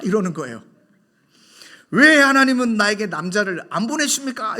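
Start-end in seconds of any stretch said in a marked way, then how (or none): 1.9-4.6 louder, higher retold outburst; mock upset complaint. Young woman complaining to the pastor, retold emotionally. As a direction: act out her emotional complaint. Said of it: "감정을 풀어내면서".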